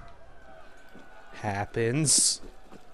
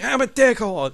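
mock remorseful confession; 10 semitones higher, 7 dB louder than usual. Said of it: "And it's like".

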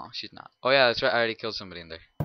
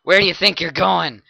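taunt; 6 semitones higher, 9 dB louder than usual. Acted. Taunt repeated.

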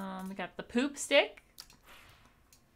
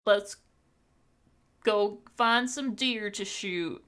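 slow, amateur Southern drawl; attempted Southern accent; 2 semitones lower, slower than usual. Shown as a demonstration. Streamer showing a southern thing to say, shaky-attempt Southern accent. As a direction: do your best rough Southern accent. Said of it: "southern things in a southern accent".

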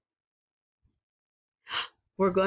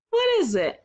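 much higher, sing-song quiz question; playful question; 9 semitones higher, faster than usual. Acted. Teacher quizzing young children, high and playful.

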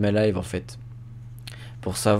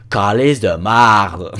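slow, loud Quebec French Calice de marde; Quebecois swear; 9 dB louder, much slower than usual. Retold or imitated. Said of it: "je fais".

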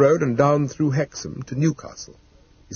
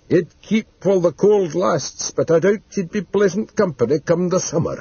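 Mister Dodd, practical servant; 5 semitones higher than usual. Acted. Mister Dodd considering what to do with the body, high and practical. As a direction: weigh it up in a put-on retainer's voice.

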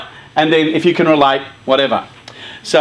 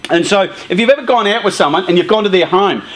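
usual speaking voice

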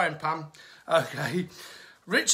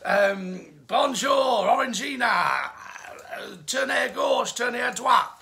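put-on high, loud schoolboy French phrases shouted in a French accent; hammed-up French-accented child shouting; mock French kid; 4 semitones higher, 4 dB louder than usual. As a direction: yell random French like a cheeky French kid taunting. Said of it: "the little French kid's there going".

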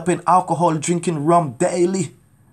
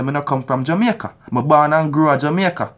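broad Jamaican patois, firm and proud; 2 semitones lower, 3 dB louder than usual. Shown as a demonstration. To doubters of his roots, firm Jamaican patois. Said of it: "I'm Jamaican".

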